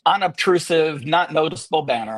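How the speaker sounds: dry, deliberate sarcastic understatement. Real, not acted. Presenter jokes to webinar viewers about a prominent banner, sarcastic. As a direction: say it tongue-in-cheek, each descriptor set apart. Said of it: "I'm being sarcastic".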